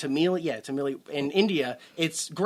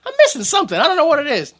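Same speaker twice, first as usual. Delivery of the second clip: high, loud, laughing self-quote; laughing mock puzzlement; 10 semitones higher, 7 dB louder, much faster than usual. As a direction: retell it through laughter, voice up high. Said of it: "and I went".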